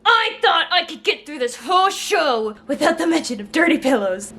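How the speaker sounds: outraged rant, starting high and forceful; angry. Real, not acted. Viewer fuming at a hated line, angry. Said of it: "I'm so angry".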